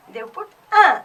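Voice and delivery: un said as a short nasal uh; French un. Shown as a demonstration. Teacher models un for the class. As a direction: say un like a clipped nasal uh. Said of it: "Wherever the object happens to be masculine".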